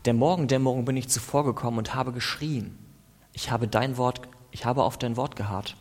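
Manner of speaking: earnest, pleading psalm prayer; impassioned prayer reading; fervent prayer. Acted. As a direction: plead with God through the psalm.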